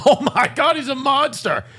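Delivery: high, loud laughing exclamation; excited. Real, not acted. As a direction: gush about how huge he is. Exclaiming about size.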